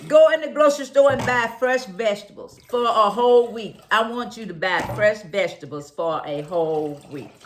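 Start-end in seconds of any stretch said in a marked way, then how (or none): 0.1-3.8 louder, firm challenge to the listeners; strong voice. Real, not acted. Challenging her listeners to buy vegetables, in a loud strong voice. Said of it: "the sound of my strong voice".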